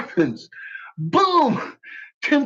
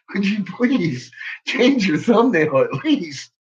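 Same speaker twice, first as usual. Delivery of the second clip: laughing; slower than usual. Real, not acted. Mocking rival's ugly thumbnail.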